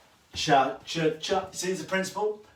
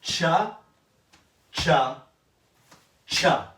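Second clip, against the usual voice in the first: spaced count; 4 dB louder, much slower than usual. Shown as a demonstration. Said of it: "If we go forwards, I go".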